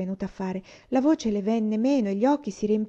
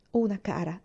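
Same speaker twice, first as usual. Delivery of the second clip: gently. Acted. Rosemary reassures little Una, gently. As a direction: speak kindly to a frightened child. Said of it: "disse dolcemente".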